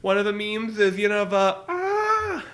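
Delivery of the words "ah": mock scream. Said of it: "a guy in the mountain screaming".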